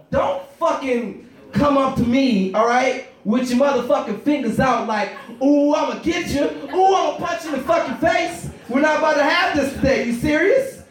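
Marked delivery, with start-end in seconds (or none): 5.4-8.5 teasing tickler. Retold or imitated.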